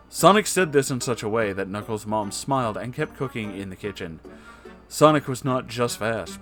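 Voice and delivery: ordinary delivery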